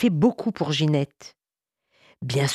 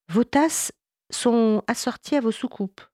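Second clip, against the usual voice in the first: put-on a hollow, echoing voice from a little girl; 6 semitones higher than usual. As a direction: say it as if it echoes from far away. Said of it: "Sa voix faisait comme un écho".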